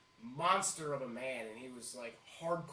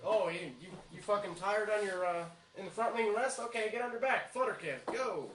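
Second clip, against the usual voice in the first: loud, higher barked orders of a drill sergeant; drill sergeant barking; 5 semitones higher, 6 dB louder than usual. Retold or imitated. Drill sergeant yelling exercises at a tired recruit, loud and high. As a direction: bark out push-up commands like a furious drill sergeant.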